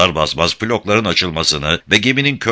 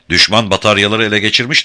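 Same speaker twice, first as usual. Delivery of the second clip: loud alarmed shout, higher; 4 semitones higher, 4 dB louder than usual. Acted. Dorian warning the crew of enemy batteries, shout. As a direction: warn them the guns are taken. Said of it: "diye bağırdı Dorian".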